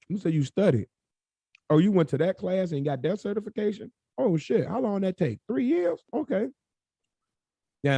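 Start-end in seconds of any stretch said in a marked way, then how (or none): 0.1-6.5 high-pitched, incredulous grilling; mock impressed questioning. Friend hearing about someone's three-year certification, mock impressed. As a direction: quiz them in a higher, put-on amazed voice. Acting out a grudging friend's reaction.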